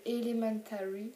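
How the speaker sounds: Elementary said with a clumsy English accent. Real, not acted. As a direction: try the English title in an English accent. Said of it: "désolée pour l'accent pourri".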